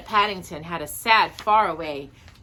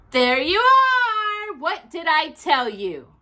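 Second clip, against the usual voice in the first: very slow, high and loud "told you so"; triumphant cry; 10 semitones higher, 7 dB louder, slower than usual. A narrator's reading. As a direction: crow triumphantly at being right. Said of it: "cried Judy".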